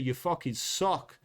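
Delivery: slow, drawn-out mock British insult; British-accent jab, slow and dismissive. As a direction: sneer it in a put-on British accent. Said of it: "that's my problem with the British accent".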